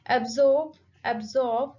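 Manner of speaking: "absorb" with SORB stressed; teacher's model "absorb", light AB and strong SORB; stress on second syllable. Shown as a demonstration. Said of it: "the stress is on second syllable".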